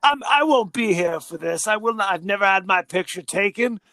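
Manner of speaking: indignant uncle in a put-on British accent; mock-British outrage. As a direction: scold haughtily in a British accent. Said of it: "doing a British accent now".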